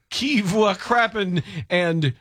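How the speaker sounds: put-on slow French accent. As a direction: ask it like a mock Frenchman, slowly. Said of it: "only one of which you will understand".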